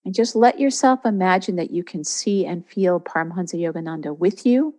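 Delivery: calm guiding voice with long pauses; guided meditation. Real, not acted. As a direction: ease them gently into a receptive state. Leads a guided visualisation.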